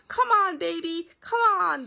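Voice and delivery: high loud football-fan yell; yelling cheer. A narrator's reading. Daddy cheering on the baby, loud high yell. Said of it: "Daddy yelled".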